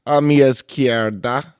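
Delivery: slow, loud ring introduction; lucha libre announcer. Pretend. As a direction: stretch it like a wrestling emcee. Introducing cohosts, announcer style.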